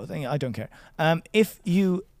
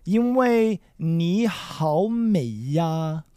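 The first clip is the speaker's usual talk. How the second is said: Taiwanese accent; 2 semitones higher, much slower than usual. Shown as a demonstration. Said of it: "the Taiwanese accent".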